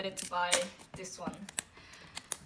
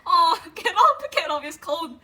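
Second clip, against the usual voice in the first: laughing tease; 7 semitones higher, 10 dB louder than usual. Real, not acted. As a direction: tease the photo while still giggling. Cooing at shirtless photo.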